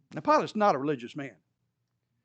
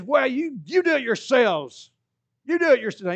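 louder, higher exasperated retort; irritated Pilate; 7 semitones higher, 6 dB louder than usual. Acted. Irritated Pilate telling the priests to do it themselves. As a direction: throw it back at them. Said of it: "Pilate gets really irritated".

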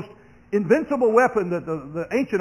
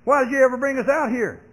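raised, louder whining accusation; mock exasperated complaint; complaining to Moses; 7 semitones higher, 5 dB louder than usual. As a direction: demand an answer from Moses. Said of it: "And they said".

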